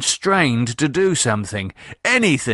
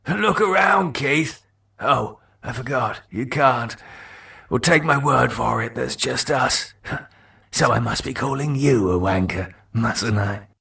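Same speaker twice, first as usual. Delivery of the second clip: lightly voiced cockney mate, mocking; Mark taunting. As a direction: tease him, pleased with yourself. Mark's voice in dialogue.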